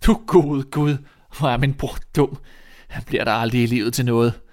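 loud exasperated exclamation; scornful older brother. Acted. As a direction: despair at a foolish brother. (hånlig storebror)

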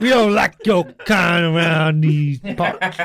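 slow, hammed-up redneck drawl through laughs; mock hick voice. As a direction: play a hostile small-town local, laughing. Mocking racist camera.

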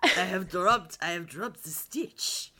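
slow, badly faked French accent; muddled mock-French accent; attempted French accent. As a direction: try a hammy French accent, drawing the words out. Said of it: "what accent was that".

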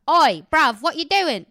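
loud, cheeky Cockney call; Cockney accent. Shown as a demonstration. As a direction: put on a Cockney street accent. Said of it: "I like doing the Cockney one".

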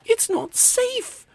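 very high, slow mock scream; stretched-out shriek at moderate volume. A narrator's reading. Mother alarmed at the sword, high acted scream. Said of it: "she screamed".

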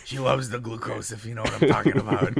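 mock German accent, sped up at the end; a joking German accent, sly and quick; hammed-up German accent with a knowing wink. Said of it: "That's my German accent".

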